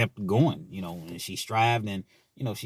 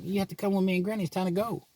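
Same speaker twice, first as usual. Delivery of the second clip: imitating hurried daughter; 10 semitones higher, faster than usual. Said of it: "She's like".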